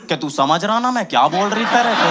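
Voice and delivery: light Hyderabadi accent on her words; a hint of a Hyderabadi girl's lilt. Date imitating her Hyderabadi accent, lightly voiced. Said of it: "हल्का हल्का Hyderabadi accent भी था".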